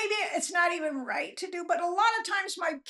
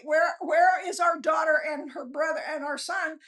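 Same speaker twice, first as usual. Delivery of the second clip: a mock anxious shout for missing children; worried parents shouting; 3 dB louder than usual. Parents calling out for their late children, anxious shout. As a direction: call out like a parent whose kids are late.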